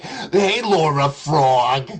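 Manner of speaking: slow, drawn-out sugary roll call of names; mock sweet greeting. Mocking a streamer by sweetly greeting chatters slowly. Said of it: "I'll be like".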